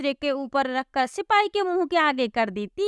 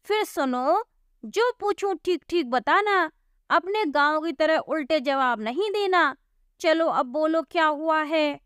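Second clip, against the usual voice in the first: higher, bossy constable voice; gruff hint of a police constable; stern policeman; 4 semitones higher than usual. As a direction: lay down the law like a village cop.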